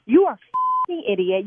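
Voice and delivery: slow, weighted, furious put-down; enraged jogger curses at caller; angry insult. Real, not acted. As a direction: spit out each word slowly.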